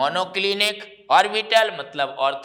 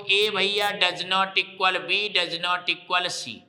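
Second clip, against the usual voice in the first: slow dictation; much slower than usual. Shown as a demonstration. Teacher dictating the condition to students, slowly. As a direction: slowly spell out each part. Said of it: "तीन आपको एक जैसा लिख देना है".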